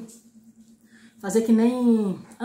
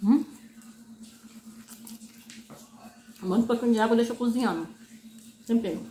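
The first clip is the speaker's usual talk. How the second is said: chewing while talking; muffled full-cheek speech; mouth full of noodles; faster than usual. Real, not acted. Seen 0: Slurps noodles at -1 to 1.3, then chews and talks with mouth full.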